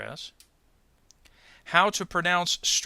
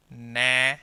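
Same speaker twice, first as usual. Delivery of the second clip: Na alone, held out evenly; isolated stressed syllable; 3 semitones lower, 4 dB louder than usual. Shown as a demonstration. Teacher showing the syllable between two breaks, isolated and stressed. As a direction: say Na by itself, firm and drawn out. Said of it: "Here is the syllable break".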